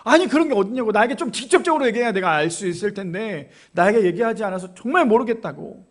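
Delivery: mildly indignant retold protest; heated retort. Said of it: "더 따다다다닥 말씀하시는 거예요".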